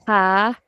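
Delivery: ha held long as a slow demo; stretched first sound. Shown as a demonstration. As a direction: draw out the vowel of "ha". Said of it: "I'm stretching the first sound".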